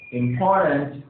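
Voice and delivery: slow "Important" with weight on POR, im-POR-tant; careful model "Important", im-POR-tant; second-syllable stress. Shown as a demonstration. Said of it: "and the second syllable".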